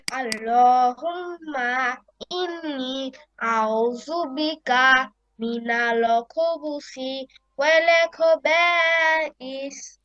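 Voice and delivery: careful Arabic recitation. Shown as a demonstration. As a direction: recite it in a sustained, measured chant. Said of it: "সুন্দর করে শোনান".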